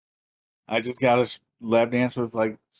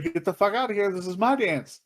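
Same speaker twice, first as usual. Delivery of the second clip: higher, mock-territorial order; mock indignant claim; 5 semitones higher than usual. Brother pulling birthday guy off the chair, mock indignant. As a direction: play at kicking someone out. Acting out taking over the stage.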